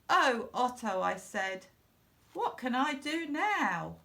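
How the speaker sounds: high, anxious wail; despairing cry. Acted. Boy despairing over his giant fish, anxious wail. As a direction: cry out helplessly.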